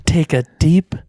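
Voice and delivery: slow, calm meditation read; guided meditation. Acted. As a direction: guide the breath slowly.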